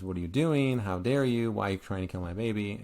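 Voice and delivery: angry. Retold or imitated. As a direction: act out an outraged mother confronting a nursemaid. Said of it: "really angry, and she says".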